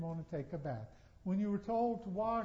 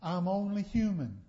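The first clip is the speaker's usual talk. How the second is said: mock excuse; 6 dB louder than usual. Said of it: "We can no longer say".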